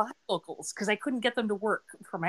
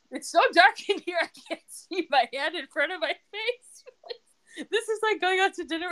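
mock grumpy complaint; 10 semitones higher than usual. The speaker griping to Alan about the dark restaurant, mock exasperated. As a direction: ham up a fussy diner who can't see.

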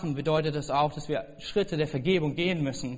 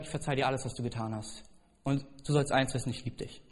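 soft forgiveness; 3 semitones lower, 6 dB quieter than usual. Retold or imitated. Telling his father he forgives him.

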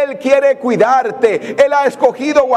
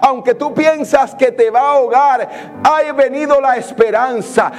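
predica con fervor y énfasis, un poco más alto; predicación ferviente. Acted. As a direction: anima a la congregación con energía. Predica con fuerza creciente. (prédica animando a la iglesia a no temer, con fervor)

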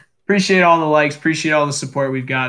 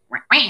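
mock alien whimper; 9 semitones higher than usual. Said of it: "He goes".

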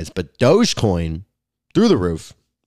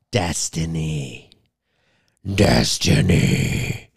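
slow dramatic drawl; 7 semitones lower, much slower than usual. Acted. Drawn-out dramatic name call.

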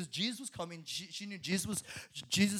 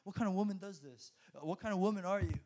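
scornful rebuke; 6 dB quieter than usual. Retold or imitated. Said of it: "people start rebuking her, saying".

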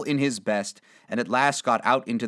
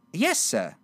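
lightly voiced higher girl; a hint of a young servant; 5 semitones higher than usual. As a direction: answer as a polite maid. Servant girl answers Scrooge.

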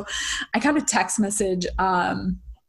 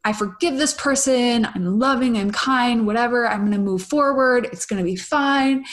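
mock forced forgiveness; 3 semitones higher than usual. Voicing someone faking readiness to forgive, mild mock calm. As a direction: recite forgiveness you don't feel yet. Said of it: "before we're really ready to".

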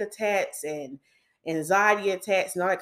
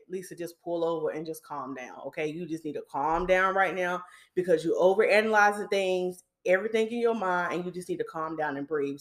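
self-talk. Retold or imitated. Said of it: "And I said".

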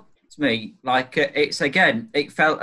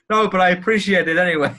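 higher, louder, fast tearful plea; breaking down; 6 semitones higher, 6 dB louder, faster than usual. Retold or imitated. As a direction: plead through tears, rushing it out. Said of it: "And he's breaking down".

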